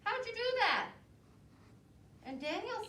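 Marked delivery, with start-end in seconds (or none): 0.0-0.9 high, surprised mother asking; mom amazed. Acted. Mother asks Daniel how he calmed the baby, high and amazed. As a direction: gasp out the question like an amazed mom. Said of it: "his mother says".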